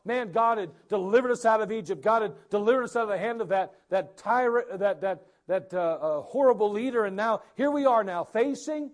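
eager, lifted voice; hopeful Israelites. Retold or imitated. Pastor voicing Israelites hoping for the land, eager. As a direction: sound full of hope about the land. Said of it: "they thought".

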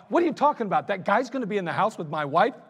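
rising disbelief that swells into a near shout; jealous outburst. Retold or imitated. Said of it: "I went ballistic".

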